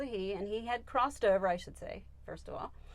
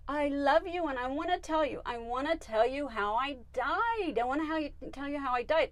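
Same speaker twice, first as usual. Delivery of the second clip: higher, eager pet voice; urgently telling Mom, pitched up; channeled pet; 6 semitones higher, 3 dB louder than usual. Acted. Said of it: "And he said".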